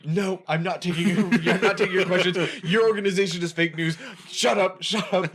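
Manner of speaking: loud, high mocking Trump voice; Trump impression. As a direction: bark it like an angry president. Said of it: "where he's like".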